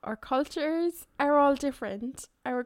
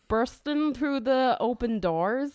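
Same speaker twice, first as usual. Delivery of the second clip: put-on Northern Irish accent. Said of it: "Northern Irish accent, please".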